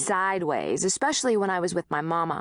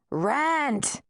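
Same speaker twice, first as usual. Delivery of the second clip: barked demand; 7 semitones higher than usual. A narrator's reading. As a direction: snap it like an order. Landlord demands rent.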